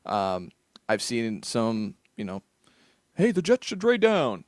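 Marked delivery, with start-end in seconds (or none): 3.2-4.4 high, louder mock suggestion; imitated draft chatter. Voicing people who call every year for a trade, imitated eager call. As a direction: pipe up like someone pitching a hot take.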